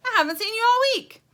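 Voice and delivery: very high, loud, quick greeting; excited high-pitched rush; crying out. A narrator's reading. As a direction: gush it out loudly to a long-missed friend. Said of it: "he cries".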